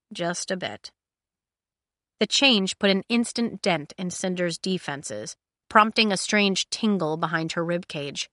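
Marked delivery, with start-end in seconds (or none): none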